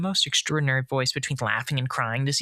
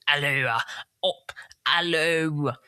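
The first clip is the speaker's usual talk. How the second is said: parrot voice. Acted. The parrot calling on the island, squawky. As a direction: call it out like a parrot. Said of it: "That's what he sounded like".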